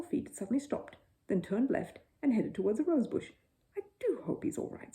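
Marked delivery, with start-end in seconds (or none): 3.8-4.9 high, breathy, worried; anxious. A narrator's reading. Mrs Brown worried about Paddington in the camera, anxious. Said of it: "said Missus Brown anxiously".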